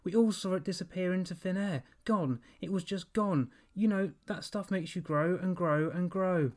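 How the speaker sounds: put-on a panicked boy grilling his dog; urgent demand. A narrator's reading. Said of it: "Evan demanded".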